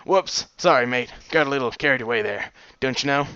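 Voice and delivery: put-on lightly British-tinged odd accent; sheepish pony with a mixed accent. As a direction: apologise in a muddled British-ish accent. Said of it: "His odd accent".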